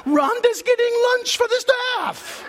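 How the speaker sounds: bitter laugh while telling his wife the news; laughing disbelief. Retold or imitated.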